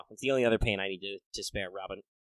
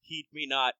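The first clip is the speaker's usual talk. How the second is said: lightly voiced goth necromancer; a touch of dark archaic gloating; sneering gloating dark voice; 2 semitones higher, 5 dB quieter than usual. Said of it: "I'm talking like a goth necromancer".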